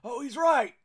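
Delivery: calling down the row. Acted. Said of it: "You hear down the row".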